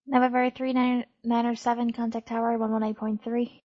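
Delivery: crackly military radio. Real, not acted. Controller radio handoff.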